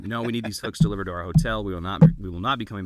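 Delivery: loudly insisting as the upset New York tourist; mock angry demand. Prank caller to store clerk, hammed-up loud demand. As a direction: raise the voice and demand, a hammed-up customer. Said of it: "we got to the point".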